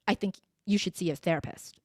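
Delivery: detached, blunt advice; harsh, disconnected. Shown as a demonstration. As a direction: deliver it straight, without cushioning. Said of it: "That comes off as harsh".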